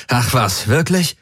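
a hint of dark sarcasm; mild gloomy retort; understated bitter irony; grim sarcasm. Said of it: "gab Galen düster zurück".

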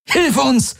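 high barked command. A narrator's reading. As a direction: bark it at him. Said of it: "bellte Kirai".

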